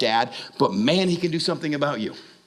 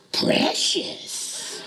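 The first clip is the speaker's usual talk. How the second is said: mock creepy whisper. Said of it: "He's like".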